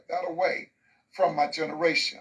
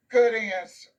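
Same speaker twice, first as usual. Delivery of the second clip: higher-pitched teacher approval; celebratory praise; 4 semitones higher, 4 dB louder than usual. Acted. Teacher celebrating a white kid's answer, gushing praise. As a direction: praise it like a triumph. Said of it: "It was celebrated".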